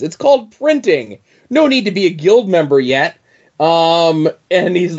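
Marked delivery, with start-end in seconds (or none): 0.0-3.2 lightly voiced carefree bandit; jaunty rogue voice. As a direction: toss it off like a cheerful scoundrel. Retelling Hobgadling's boast.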